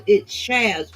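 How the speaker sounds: "Chaz" said slowly with an S H sound, as "Shaz"; "Chaz" starting with SH, said slowly; no teeth. Shown as a demonstration. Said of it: "it's S H".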